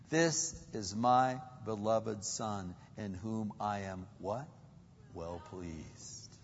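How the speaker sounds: low, slow, hushed divine voice; God the Father speaking. Acted. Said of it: "And what's he say?".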